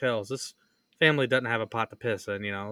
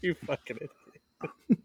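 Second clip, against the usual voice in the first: mock slow insult; 3 semitones higher, 4 dB quieter, slower than usual.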